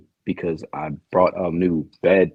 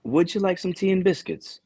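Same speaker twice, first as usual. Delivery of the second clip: much higher-pitched mock British accent; 11 semitones higher than usual. Shown as a demonstration. Contestant asked to offer tea on request, mock British accent. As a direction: put on a high, dainty British accent. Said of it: "Can you say that in the British accent?".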